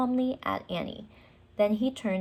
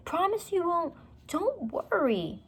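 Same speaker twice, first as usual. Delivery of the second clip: insistent; 10 semitones higher than usual. Acted. Jack and Annie exchange.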